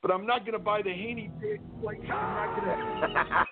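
lightly voiced Oliver Wendell Douglas, barely changed; a mild TV-farmer impression in his own voice; a hint of Oliver Wendell Douglas from Green Acres. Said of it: "my impression of Oliver Wendell Douglas".

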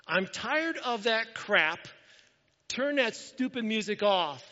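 mildly angry, slow and high; mock losing your cool, each phrase drawn out; retold angry outburst. Pastor confessing what he yelled at neighbors, retold angry outburst. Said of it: "And I lost my cool".

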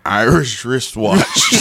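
slow, deliberate attempt at two words; careful tongue twister. Shown as a demonstration. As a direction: ease slowly through the tongue twister. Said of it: "Now say 'em together".

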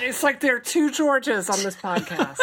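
laughing through the words. Real, not acted. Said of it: "who's talking right now".

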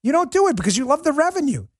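heated, high-pitched rant; indignant outburst at the platform; angry. Real, not acted. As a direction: lash out at YouTube.

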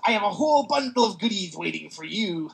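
sinister welcome to his lair; villain voice. Acted. Villain voice in comic recap.

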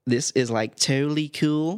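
slow, exaggerated American teen accent; hammed-up American slacker accent. Shown as a demonstration. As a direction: put on a mock American accent, drawn out. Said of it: "Do an American accent".

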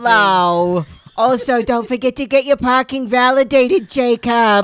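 accountant Jesus. Retold or imitated.

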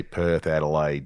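Aussie city names, said as accent practice; lightly put-on Australian twang. Shown as a demonstration. Host showing how he finds the Australian accent. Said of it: "I just use the cities".

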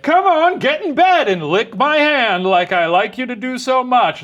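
high, loud, slow creepy coaxing. Pretend. Creepy man coaxing the burglar into bed, high. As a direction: coax him like a pet, unnervingly. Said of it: "he's like".

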